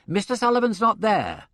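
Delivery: head him off fast; urgent protest. A narrator's reading. Secretary intercepting the inspector at the door, urgent.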